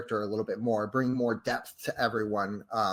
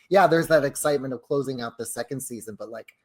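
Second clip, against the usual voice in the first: thrilled quote; 4 semitones higher, 6 dB louder than usual. Retold or imitated. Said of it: "so thrilling to be like".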